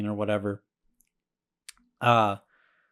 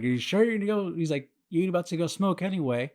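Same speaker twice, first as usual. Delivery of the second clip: stoner insisting; 5 semitones higher, faster than usual. Retold or imitated. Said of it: "He was like".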